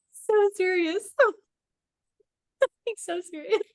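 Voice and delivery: high, laughing teasing voice; laughing mock. Real, not acted. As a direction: tease him, giggling. Mocking her date's seriousness.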